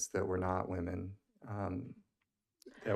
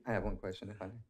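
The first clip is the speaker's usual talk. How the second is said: clearer, louder repeat so the chair can hear; repeated a bit louder; faster than usual. Real, not acted. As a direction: say it again, projecting more. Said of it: "Pardon me?".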